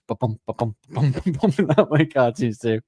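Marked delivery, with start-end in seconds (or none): 0.1-1.5 cartoon heartbeat. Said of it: "his heart goes".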